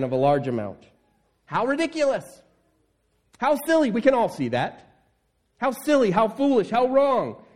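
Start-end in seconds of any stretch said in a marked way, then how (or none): 1.4-7.4 high, exclaiming disbelief; incredulous exclamations. Real, not acted. Preacher marvelling at the servant's folly, high incredulous exclamations. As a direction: marvel at how silly he was.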